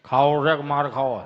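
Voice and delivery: low, loud grandpa threat; stern threat. Retold or imitated. Grandfather threatening the kids, low and loud. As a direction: growl the choice like a stern grandfather. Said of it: "હાથેની હામું જોઈને ખાલી આટલું જ કર્યો".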